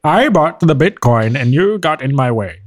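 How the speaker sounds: slow, mock-aggrieved friend voice; imitating angry friend. Playing the friend who blames others over lost Bitcoin, slow mock grievance. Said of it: "That's how he sounds?".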